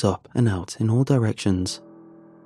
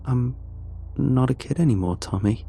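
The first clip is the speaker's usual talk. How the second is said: gentle; 4 semitones higher than usual. Acted. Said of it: "I say gently".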